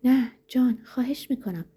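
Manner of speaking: high, pleading acted woman's voice; acted terrified appeal; frightened plea. A narrator's reading.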